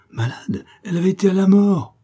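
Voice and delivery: high, loud, fast indignant outcry; general protest. A narrator's reading. Hotel guests reject the doubt, loud protest. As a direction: protest as if scandalised. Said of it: "souleva des protestations générales".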